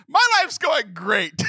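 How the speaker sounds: mock-cheerful sarcasm; sarcastic. Real, not acted. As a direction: say it like nothing could be worse. Ironic after botched surgery news.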